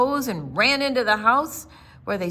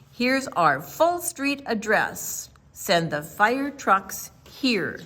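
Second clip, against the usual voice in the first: calm and clear. Acted. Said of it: "calm and clear".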